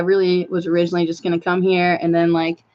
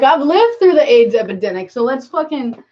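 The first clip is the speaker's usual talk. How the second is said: fired-up, higher and louder protest; mad; 5 semitones higher, 4 dB louder than usual. Acted. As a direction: push it out high and indignant. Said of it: "I'm like, I'm mad".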